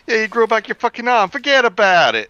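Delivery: high, laughing mock hype; mock amazement. Friend riffing on the miracle pill, high laughing mock hype. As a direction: ham up the miracle pill claim.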